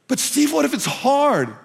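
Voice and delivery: lightly voiced anxious churchgoer; doubtful listener. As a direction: voice the doubter in the pews.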